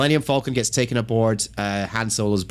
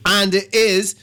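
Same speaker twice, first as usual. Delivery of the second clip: laughing disbelief; 10 semitones higher, 4 dB louder than usual. Real, not acted. Laughing outrage at Asian gang.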